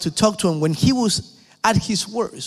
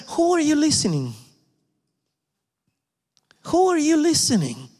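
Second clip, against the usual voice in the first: much higher, insistent challenge; pressing question; 8 semitones higher than usual. Real, not acted. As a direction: demand an answer, pushing hard. Repeated challenge to congregation.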